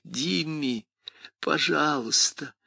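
pleading. Acted. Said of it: "голос молил".

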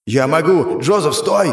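a sharp cry to stop him, rising on the name; yelling to halt an ally; shouted. A narrator's reading. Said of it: "прокричал Сура".

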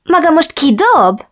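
megdöbbent kérdés; aghast. Acted. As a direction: ask it in disbelief. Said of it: "kérdezte anyám hűledezve".

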